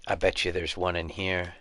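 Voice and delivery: stuffy nose voice; talking through a stuffy nose; blocked nose. Real, not acted. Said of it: "I'm so stuffy today".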